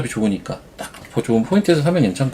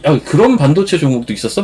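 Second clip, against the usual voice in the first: surprised; 4 semitones higher, 4 dB louder than usual. Retold or imitated. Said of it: "막 이런 얘기도 하니까요".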